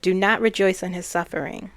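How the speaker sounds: firm warning, hit hard at the start; authoritative warning. Retold or imitated. Channeler relays the spirit's warning, with firm authority. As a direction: retell it as a solemn command with authority. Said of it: "she said it with such authority".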